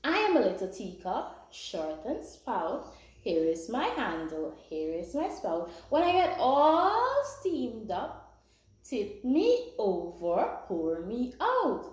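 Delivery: slow, measured nursery-rhyme chant; rhyme recitation. Shown as a demonstration. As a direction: recite it slowly for children to learn. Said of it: "let's learn a little rhyme".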